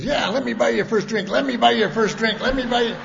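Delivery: mocking high voice. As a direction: needle him with a high taunt. Ralph offering drink mockingly.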